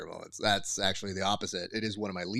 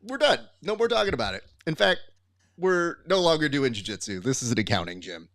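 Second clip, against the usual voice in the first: fed-up cutoff; 3 semitones higher than usual. Retold or imitated. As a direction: slam the door on the argument. Cutting off the stubborn student.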